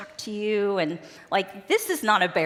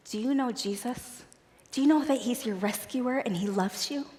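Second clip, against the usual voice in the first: put-on gentle kids club greeting; 5 dB quieter than usual. Shown as a demonstration. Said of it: "And it sounds like this".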